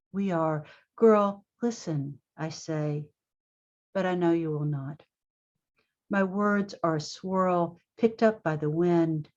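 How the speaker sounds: deliberate poetry reading, pausing between phrases; poem reading. Acted. Poet addressing her fifteen-year-old self, measured poem reading. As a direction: address the listener firmly, phrase by phrase.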